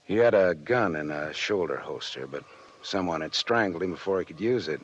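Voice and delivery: dry, world-weary detective voice-over; hard-boiled narration. A narrator's reading. Detective narrating the night to listeners. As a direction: tell it like a tired private eye.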